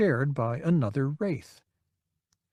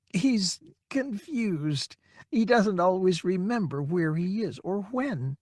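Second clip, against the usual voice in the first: soft apologetic whisper; 6 semitones higher, 4 dB quieter than usual. A narrator's reading. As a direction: explain quietly, embarrassed. Daughter explains softly.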